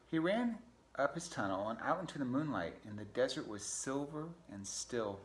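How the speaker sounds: put-on storyteller reading to children; storybook narration. A narrator's reading. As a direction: read aloud to kids, setting the night scene.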